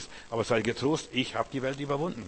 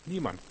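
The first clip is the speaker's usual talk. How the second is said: "Niemand" set apart as a single emphatic word; stress on NIEMAND; 2 semitones higher, 3 dB quieter than usual. Shown as a demonstration. Preacher showing the congregation where the stress falls, stressed "Niemand". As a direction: isolate "Niemand" with a pause before it. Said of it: "die Betonung liegt auf niemand".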